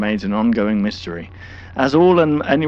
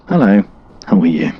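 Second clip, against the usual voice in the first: a louder, put-on character greeting; hammed-up stranger's hello, much louder; 4 semitones lower, 9 dB louder than usual. Reacting to the tape, greets viewers in a silly put-on voice. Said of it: "Should I do this voice?".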